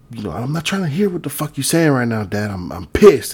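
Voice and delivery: acted annoyance, rushing and rising in pitch; pissed-off son. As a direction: imitate an irritated son snapping at his dad. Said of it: "he's pissed".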